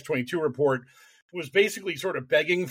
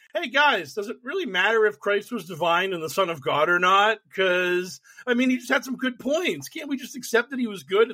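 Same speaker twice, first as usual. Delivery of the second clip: naive Christian; 4 semitones higher than usual. Retold or imitated. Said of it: "some Christian go being like".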